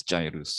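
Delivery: "gyrus" with a soft g, JAI-rus; "gyrus" pronounced JAI-russ. Shown as a demonstration. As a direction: say "gyrus" starting on a J. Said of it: "pronounce this as gyrus".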